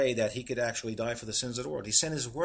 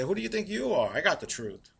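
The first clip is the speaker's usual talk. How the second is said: indignant retort; 4 semitones higher than usual. Retold or imitated. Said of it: "they'll say".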